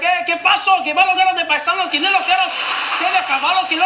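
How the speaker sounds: very high, excited street chatter; mock a high-pitched Spanish greeting; imitated Spanish speakers. Strangers greeting a supposed fellow Mexican, imitated Spanish speakers. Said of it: "And they were like".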